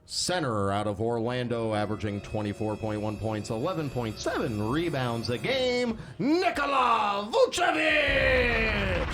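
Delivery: restrained announcer, big final name. Acted. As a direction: save the punch for the name. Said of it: "A lot better".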